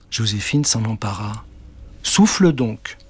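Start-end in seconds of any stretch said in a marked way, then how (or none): 2.0-3.0 witch urging. Acted. Witch urges.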